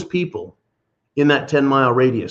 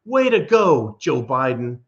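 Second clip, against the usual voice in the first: mock praise. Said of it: "the smart ass satirical emphasis".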